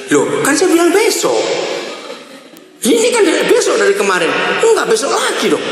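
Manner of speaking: high-pitched mock indignant put-off; playfully protesting excuse-maker; Javanese-style stalling. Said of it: "Kalau pakai besoknya Jawa".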